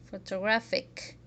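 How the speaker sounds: "photographic" with the stress on "graph"; "photographic", third syllable accented; one accented syllable. Shown as a demonstration. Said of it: "very loudly and the other syllables very quietly".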